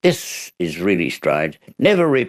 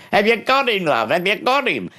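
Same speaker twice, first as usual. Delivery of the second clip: high, eager voice of the wife; wife asks husband if he caught the burglar; wife calling out; 14 semitones higher than usual. Retold or imitated. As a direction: call through from the kitchen.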